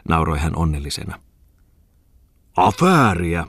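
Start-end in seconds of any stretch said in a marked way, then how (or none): 2.6-3.5 grumbled. Acted. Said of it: "murahti kirjakauppias".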